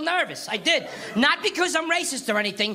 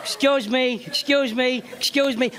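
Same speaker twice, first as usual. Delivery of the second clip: tough Italian father; slower than usual. Retold or imitated. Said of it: "He said everything three times".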